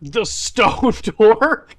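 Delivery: slow laughing question; laughing disbelief. Real, not acted. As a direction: stone door, said through a laugh, slow.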